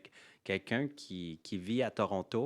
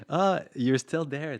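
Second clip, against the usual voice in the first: slow, high, loud surprised call; drawn-out delighted surprise at seeing them; 6 semitones higher, 10 dB louder, slower than usual. Retold or imitated. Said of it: "je suis comme".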